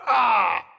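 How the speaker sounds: short pained "ah"; cry of pain. Acted. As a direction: cry out as if just hit. Hurt companion cries out.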